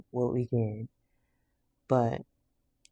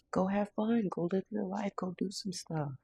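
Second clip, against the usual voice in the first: upbeat encouragement; 6 semitones higher than usual. Acted. Encouraging spirit message voiced.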